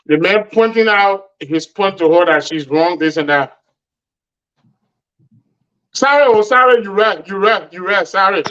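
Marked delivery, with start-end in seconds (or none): 5.9-8.4 mock sorry, rattled off repeatedly; sarcastic apology. Woman shown she's wrong, giving her man a sarcastic sorry. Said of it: "say the most sarcastic sorry".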